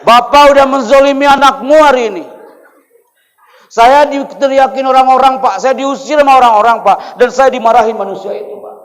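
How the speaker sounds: loud, high hammed-up complaint; angry protest. Boy blames his father after being chased off, loud protest. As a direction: wail the accusation at your father.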